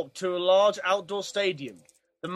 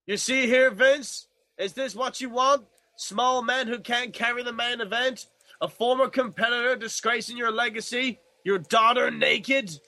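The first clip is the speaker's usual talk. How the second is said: stern ghost; 5 semitones higher than usual. Acted. Ghost scolds Vince.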